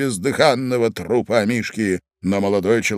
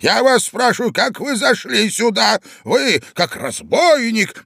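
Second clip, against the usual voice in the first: high, raised questioning; indignant demand; 9 semitones higher than usual. A narrator's reading. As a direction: interrogate the intruder sharply. Old man interrogates intruder. (возмущённый допрос)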